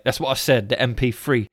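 mock-confident lightly done Ali G; Ali G voice again. Retelling the skit, a hint of Ali G insisting. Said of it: "He's like".

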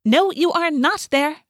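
high, loud, emphatic refusal; snapping. A narrator's reading. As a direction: snap back, leaning slowly on each word. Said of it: "Rachel snapped".

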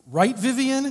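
high, loud cheerful tag-question to a friend; playful call-out. Acted. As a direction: toss it to Vivian with a grin. Reads playful letter aside.

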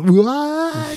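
high, drawn-out cartoon squeak; cartoony voice. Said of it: "Sort of a cartoony".

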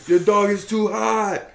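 loud, high, slow mock complaint; retold bitching. Guy scolding a dog owner over the heat, mock holler. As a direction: holler it like an indignant passerby. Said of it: "Some guy bitched at me though".

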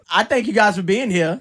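laughing through the words; chuckling while thanking them. Real, not acted. Laughing welcome.

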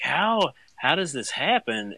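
high, panicky retold cry of disbelief; panicked disbelief. Dad retelling his diaper panic, high and disbelieving.

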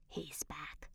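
put-on old veteran whispering that the ghost returned; whispered. A narrator's reading. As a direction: breathe it out like a secret. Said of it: "he whispered".

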